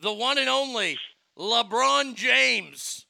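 slow, showy announcer intro; drawn-out announcer call. Pretend. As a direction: stretch the name out like a ring announcer. Grand intro of nominee.

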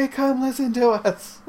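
high, loud announcer shout; loudspeaker call. Pretend. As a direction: call out like through a megaphone. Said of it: "and tell people".

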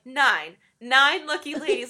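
loud, mildly hammed-up confidence. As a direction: announce it with mock self-assurance. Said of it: "he's still so sure of himself".

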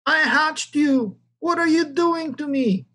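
a hen protesting to her ducklings, pitched high; squawking hen. A narrator's reading. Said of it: "the hen squawked".

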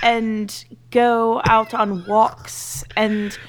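put-on Southern-French accent. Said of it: "No, it'd be like".

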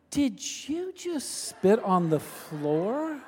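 can't believe what she just saw, drawn out; slow, disbelieving question. Retold or imitated. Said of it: "Lisa said".

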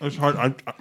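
talking through a mouthful of food; words round a bite of wing; mouth full. Real, not acted. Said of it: "I'm taking forever to swallow".

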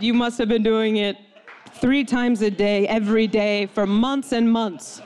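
slow, loud, hammered-out accusation; grave accusation. Retold or imitated. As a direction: drive each phrase home slowly. Doctor's accusation relayed by dad.

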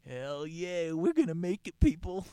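loud, high hyped shout; rally the crowd, full volume; excited cheer. Real, not acted.

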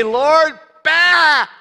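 loud bleating "Lord, bah!" like a sheep. Pretend. Preacher to congregation, bleating "bah" like a sheep. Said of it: "Just say".

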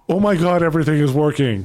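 retelling his own relieved excitement; relieved enthusiasm. Retold or imitated. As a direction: gush with relief. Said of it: "the enthusiasm in my voice going".

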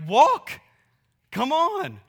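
sudden high, loud barked command; mock yell. Parent yelling at a crawling baby: high loud shout. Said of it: "yell at them".

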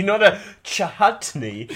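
chutney said with no h, slowly; plain chutney. Shown as a demonstration. Correcting a mate's chutney, slow and plain. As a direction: say chutney cleanly, no h. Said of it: "You don't pronounce the H in chutney".

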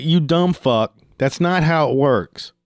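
high, slow exasperated scolding; retold flipping out. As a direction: act out telling off a fool, mildly heated. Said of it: "I'm starting fucking flipping out".

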